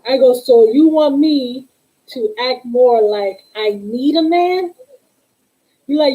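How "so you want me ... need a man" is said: slow, incredulous question rising at the end; retold stunned question, spelled out slowly. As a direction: draw it out in disbelief, lifting on "a man". Retold incredulous reply to partner's demand.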